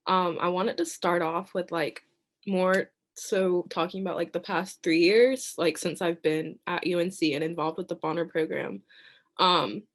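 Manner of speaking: anxious, shaky public speaking; shaky nervous voice. Real, not acted. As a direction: voice trembling with nerves. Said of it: "I know y'all can hear it in my voice".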